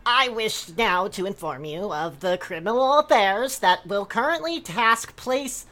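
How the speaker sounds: formal broken-English proclamation; quest giver voice. Acted. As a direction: announce it like a fantasy quest giver. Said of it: "You talk like a fucking Elder Scrolls quest giver".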